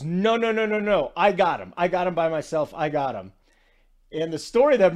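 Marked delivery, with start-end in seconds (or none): 0.0-3.3 retold insistent refusal. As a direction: imitate a player waving off help. Retold Gobert waving off help.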